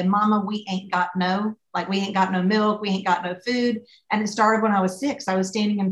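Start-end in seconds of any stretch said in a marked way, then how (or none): 0.0-3.8 put-on Southern child's grammar. To her mama, a Southern kid complaining, mildly drawled. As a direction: play up the Southern kid's bad grammar. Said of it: "it became a joke around here that I say".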